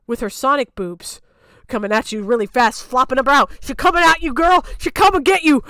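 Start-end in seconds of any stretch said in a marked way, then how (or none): 3.6-5.6 higher, louder sing-song teasing; teasing taunt. Acted. Mocking a friend scared of a teenager. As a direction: taunt her playfully.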